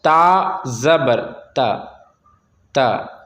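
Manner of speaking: ता with a short, unstretched a; short vowel. Shown as a demonstration. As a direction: cut the vowel of ता short, no lengthening. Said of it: "नहीं खींचना है".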